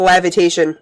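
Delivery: "lavitation", first syllable rhyming with have; mispronounced levitation. Retold or imitated. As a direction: say "lavitation" with "lav" at the start. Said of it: "he pronounced it wrong".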